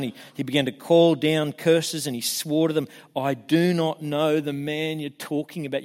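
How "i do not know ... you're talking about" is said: each word of "I do not know the man" stressed; emphatic denial. Retold or imitated. Peter swearing to his accusers, emphatic denial. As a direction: deny it firmly, leaning on "do not know". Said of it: "You couldn't get more emphatic".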